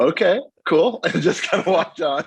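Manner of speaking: high, loud, laughing through the words. Retold or imitated. Retelling the French guy's compliment, laughing. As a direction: laugh it off while walking away.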